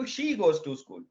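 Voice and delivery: slow, deliberate teacher demo; slow model answer. Shown as a demonstration. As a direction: read it out slowly for students. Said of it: "पहले वाले में answer क्या मिल रहा है".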